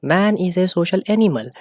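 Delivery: very slow, each word set apart for notes; teacher reading a quote out for the class to copy; slow dictation. Shown as a demonstration. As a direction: dictate the quote slowly to students. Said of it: "ये quotation हमेशा answer writing में लिखिएगा".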